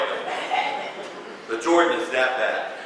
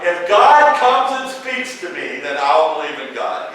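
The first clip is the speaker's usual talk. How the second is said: skeptic's demand; 2 semitones higher, 9 dB louder than usual. Retold or imitated. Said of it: "they're like".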